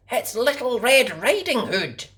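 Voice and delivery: put-on high, childlike promise; little girl voice. A narrator's reading. Girl promising her mummy, high and earnest. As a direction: sound like a small girl promising. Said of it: "she said".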